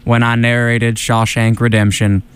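silky-smooth, even narrator; measured film narration, stretching the last phrase; Morgan Freeman. Acted. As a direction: glide through it with little pitch movement. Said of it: "keep my voice as silky smooth as possible".

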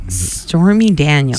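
put-on slow, drawn-out Boston accent. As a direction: say the name like a Bostonian. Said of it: "Said with the best Boston accent".

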